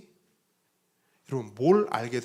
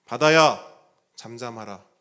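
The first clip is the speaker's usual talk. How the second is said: loud command to the sea; commanding call; 3 semitones lower, 9 dB louder than usual. Retold or imitated. Jesus commanding the sea, loud on the first word. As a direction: order the waves to be still. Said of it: "했을 때 물러갔던 그 말씀".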